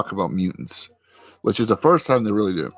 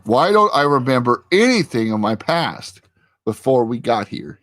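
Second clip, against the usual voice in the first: retold argument; 3 semitones higher than usual. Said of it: "they get this big argument".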